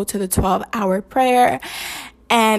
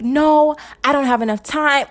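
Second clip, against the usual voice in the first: retold protest; 5 semitones higher than usual. Recalling her own thoughts on the gift, protesting. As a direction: act out your own objection, higher. Acting out own anxious objection.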